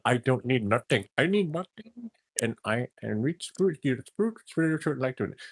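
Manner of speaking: a hammed-up Indian accent for the preaching yogi; mock Indian accent. Mocking the yogi's sermon in an Indian accent. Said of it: "I just do an Indian accent".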